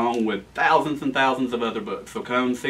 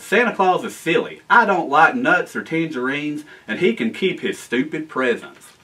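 mild defiant yell; 2 semitones higher than usual. Acted. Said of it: "stamped his foot defiantly and yelled".

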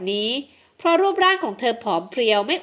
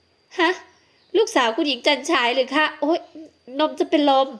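shocked nanny; 4 semitones higher than usual. Acted. Nanny shocked, about to faint.

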